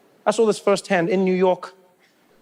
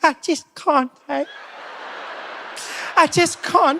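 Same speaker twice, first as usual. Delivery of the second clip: much higher, overwhelmed whine; fragile white woman; 7 semitones higher, slower than usual. Retold or imitated. White women back in the day when things go wrong, high fragile whine. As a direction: sound like you're about to break. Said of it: "They'd be like".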